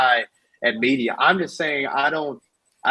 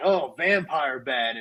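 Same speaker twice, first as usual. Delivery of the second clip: joking one-liner tossed off casually. Describing a scene, imitating Negan's taunt: Negan impression. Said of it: "got the bat and he's like".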